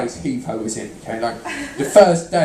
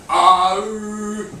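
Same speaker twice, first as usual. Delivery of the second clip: crowd call; 6 semitones higher than usual. Shown as a demonstration. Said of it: "could this side of the crowd go".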